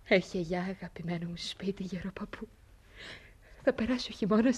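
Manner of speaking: soft, breathy goodbye; whispering goodbye to a beloved home; whispered farewell. Acted. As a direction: whisper to the old house.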